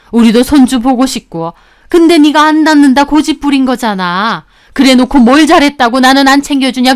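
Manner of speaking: mother-in-law lashing out at her daughter-in-law; angry mother-in-law. Retold or imitated. Mother-in-law venting anger at her.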